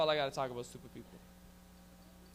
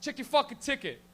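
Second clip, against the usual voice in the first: heckler telling off; 5 semitones higher, 6 dB louder than usual. Retold or imitated. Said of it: "He goes".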